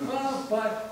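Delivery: high, drawn-out plaintive call; pleading tone. Shown as a demonstration. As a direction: call for papa as if in dire need. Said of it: "é o tom de voz".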